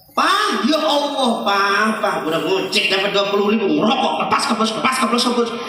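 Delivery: wife scolding husband for smoking. Retold or imitated. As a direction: nag him to stop smoking.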